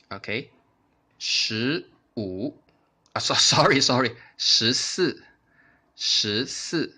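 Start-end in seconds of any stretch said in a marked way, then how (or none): 3.1-4.1 laughing apology. Real, not acted.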